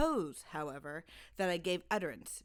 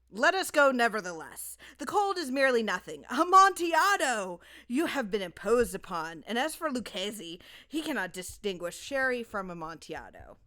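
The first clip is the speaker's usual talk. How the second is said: much louder and higher, peaking on Amontillado; excited insistence; 3 semitones higher, 8 dB louder than usual. Acted. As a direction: drunk and eager, overriding every objection. Drunk Fortunato insists, scorns rival.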